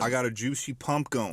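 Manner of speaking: Tucker. Retold or imitated. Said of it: "That's what Tucker would say".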